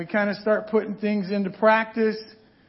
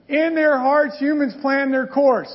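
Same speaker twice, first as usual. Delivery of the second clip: careful reread; 4 semitones higher, 3 dB louder than usual. Shown as a demonstration. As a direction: read it again higher and louder, taking care. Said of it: "I gotta back up".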